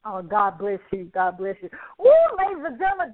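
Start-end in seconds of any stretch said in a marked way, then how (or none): 2.0-3.1 excited. Real, not acted. Host hypes audience.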